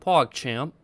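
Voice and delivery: amateur British, rising at the end; badly faked British accent; attempted British accent. Shown as a demonstration. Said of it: "PogChamp in a British accent".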